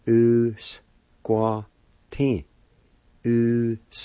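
Usquatin said clearly and loudly as a model; pronunciation demo. Shown as a demonstration. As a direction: say Usquatin firmly for the class to copy. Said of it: "It's pronounced like this".

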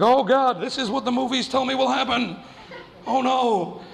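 high, hammed-up dread; comic panicked kid; mock panic. Scared kid dreads the shower.

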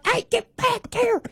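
high, sharp call to the dogs; yelling at dogs. Retold or imitated. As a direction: holler at dogs across the yard. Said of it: "we yell at the dogs".

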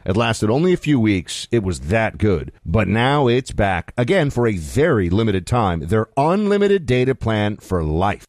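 measured radio sponsor read. Acted. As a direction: sell the offer like a radio host. Reads a sponsor ad.

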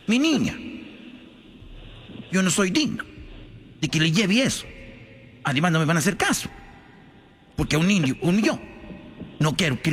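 humble villager's halting singsong; meek peasant answering in short, lilting bursts; Juan Diego. Acted. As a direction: plead unworthiness, pitch swooping at phrase ends. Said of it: "se le apareció la Virgen a Juan Diego".

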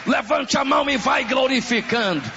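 full-force preaching. Real, not acted. Preacher urging the congregation to worship, full-force preaching. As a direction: preach it forcefully, stretching the key words.

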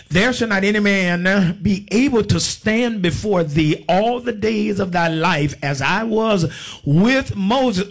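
slow, drawn-out Bible declamation; preacher's deliberate scripture cadence; scripture reading. Real, not acted. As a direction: proclaim the verse slowly to the congregation. Reads scripture to congregation.

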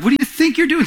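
high, incredulous rebuke; rebuking. Retold or imitated. Paul scolding the Galatian church, a high rebuke. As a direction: scold them in disbelief. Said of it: "So he's rebuking them".

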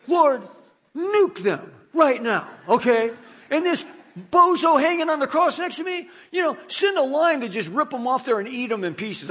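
a comic burst of mock fury; mock vengeful prayer. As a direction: pretend to demand revenge from the cross. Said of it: "this is why I'm not God".

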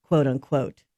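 slow, set-apart scare quotes; audible air quotes. Real, not acted. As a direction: put "cheese" in verbal air quotes. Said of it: "you have to put air quote".

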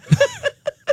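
high burst of laughter; bright laughing burst. Real, not acted. Laughing at story end.

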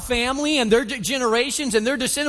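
a hint of a scoffing woman at the well; scoffing taunt. Woman challenging the stranger at the well, lightly scoffing. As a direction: raise the pitch in a mild mock scoff. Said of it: "She's got an attitude".

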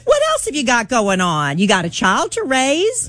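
sarcastically egging someone on; sarcastic. Pretend. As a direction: pretend it's great advice.

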